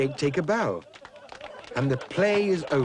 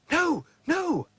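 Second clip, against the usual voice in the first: put-on high, squeaky little-boy pig. Boy as pig refusing the wolf, high and squeaky. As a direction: refuse cheekily like a small pig. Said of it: "says Jake".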